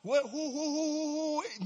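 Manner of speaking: high, hooting run of repeats; scanning enforcer. Retold or imitated. Brother Bugs scanning the room for talkers, high mock questioning. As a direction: hoot it high while hunting for the culprit.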